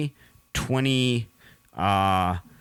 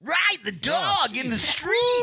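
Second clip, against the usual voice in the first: radio voice. Acted. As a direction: sell it like a cheesy ad. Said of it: "the same ad read".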